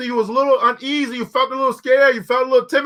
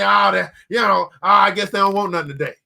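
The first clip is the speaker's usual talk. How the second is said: lower, quick, defeated mumble; defeated shrug; 5 semitones lower than usual. Retold or imitated. Preacher voicing the quitter who takes the first no, deflated. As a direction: give up with a shrug. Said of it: "and I'm gonna say".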